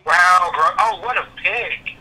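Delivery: high, loud disbelief; surprised reaction. Real, not acted. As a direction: react to a shocking pick. Reacting to interception.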